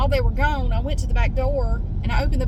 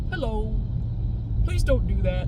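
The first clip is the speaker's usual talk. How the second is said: Wally. Retold or imitated. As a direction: voice a meek, polite cat. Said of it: "Wally kinda sounds like this".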